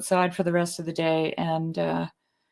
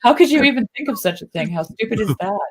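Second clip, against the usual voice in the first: mock scolding husband; 2 semitones higher than usual. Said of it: "mock husband scolding her idea".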